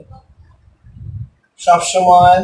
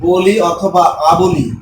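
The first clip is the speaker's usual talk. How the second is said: slow dictation; much slower than usual. Shown as a demonstration. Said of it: "বলি অথবা আবলি যুক্ত শব্দে".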